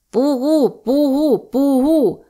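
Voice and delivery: high, loud "Пугу" called out a third time; shouting out. Acted. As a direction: call "Пугу" with full force to summon the Cossacks. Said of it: "утретє вигукнув козак".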